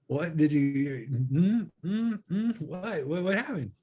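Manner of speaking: can't get the question out fast enough; eager disbelief. Retold or imitated. Asking his friend how the comedy show went, excitedly stammering.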